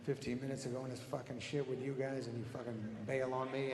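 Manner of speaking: quiet, resentful grumble; stewing. Retold or imitated. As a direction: grumble angrily under your breath, mildly. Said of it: "I'm sitting there very angry, and I'm stewing".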